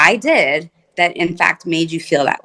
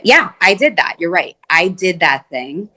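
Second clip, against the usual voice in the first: sincere ownership; 2 semitones higher than usual. Shown as a demonstration. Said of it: "not getting defensive".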